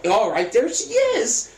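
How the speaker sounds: slow, high, mock-courteous voice; Ben Stiller's orderly. Orderly showing Happy to his grandma, slow high fake-nice imitation. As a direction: drag it out sweetly, pitched high. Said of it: "He's like".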